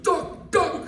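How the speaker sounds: high, laughing retold yell of a name; calling out to wake him, half laughing; high mock shout. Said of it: "the yelling didn't help".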